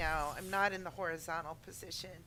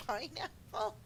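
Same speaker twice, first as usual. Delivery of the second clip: surprised; 8 semitones higher, 7 dB louder than usual. Real, not acted. Playful surprise at chat.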